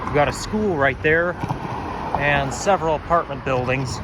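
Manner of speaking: slightly hoarse, growly voice; speaking through a frog in the throat. Real, not acted. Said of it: "I have a bit of a frog in my throat".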